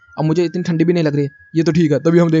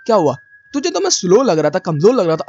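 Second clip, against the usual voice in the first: retold taunt; 3 semitones higher than usual. Fighter mocks his fallen rival, taunting. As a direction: throw it back at them, mock-cocky.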